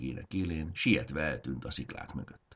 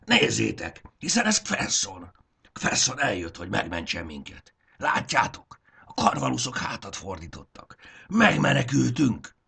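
much higher, louder joyful cry; happy relieved shout; 7 semitones higher, 5 dB louder than usual. Acted. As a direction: cheer with overflowing relief. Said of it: "boldog kiáltásként hagyta el az ajkát".

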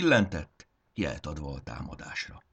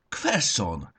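screeched call; 4 semitones higher, 4 dB louder than usual. Acted. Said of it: "rikoltotta tágra merett pupillával".

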